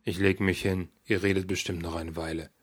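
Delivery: father mumbling as he leaves the table. Acted.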